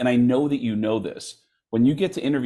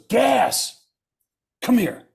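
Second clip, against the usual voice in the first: high, loud call across the hall; lightly voiced recognition; calling him over; 12 semitones higher, 3 dB louder, much slower than usual. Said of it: "he goes".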